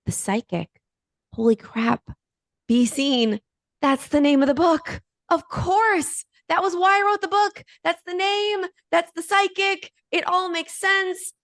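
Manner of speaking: climbing to high-pitched, giddy disbelief; the penny drops and she squeals it out; excited realization. Retold or imitated. Telling friends how she realized the title, high excited squeal.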